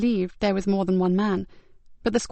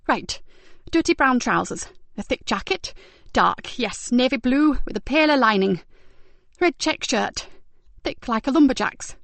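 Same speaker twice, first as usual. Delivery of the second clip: lightly raised voice of a shaken, disgusted woman; Zoe, shaken victim; 4 semitones higher than usual. Acted. Victim describing her attacker's smell to Ben, mildly disgusted. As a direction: recall the smell with a touch of revulsion.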